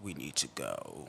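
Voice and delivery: hushed, slow, quiet creaky fry croak. Describing how he talks in the clips: Batman vocal fry voice. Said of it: "it's very like vocal fry".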